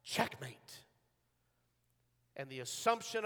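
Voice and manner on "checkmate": low demonic final cry, held back; understated demon voice, lower than usual. Acted. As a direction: pronounce it darkly as Death. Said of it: "when the demonic voice uttered the final cry".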